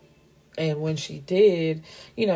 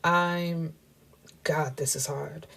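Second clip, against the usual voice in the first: halting, hushed struggle to get it out; falter, then drop almost to a whisper; stumbling over words; 3 dB quieter, slower than usual. Retold or imitated. Woman struggling to confess to her man, hushed and halting. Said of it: "she's stumbling off over her words".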